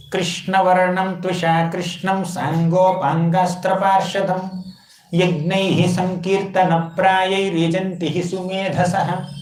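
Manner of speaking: slow, measured chanted shloka; verse recitation. Shown as a demonstration. Teacher reciting scripture to the assembly, slow chant. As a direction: intone each Sanskrit word with reverence.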